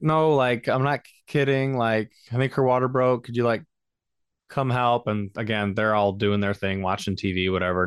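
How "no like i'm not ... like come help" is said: insistent plea. Retold or imitated. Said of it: "I'm like".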